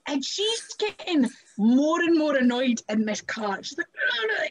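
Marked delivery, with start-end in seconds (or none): 4.0-4.4 pitched-up, agitated protest; retold shouting. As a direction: imitate a woman getting annoyed. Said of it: "starts shouting at him".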